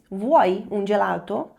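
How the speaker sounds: slow, rising Italian question; slow rising demo; slow model question. Shown as a demonstration. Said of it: "Você quer um sorvete?".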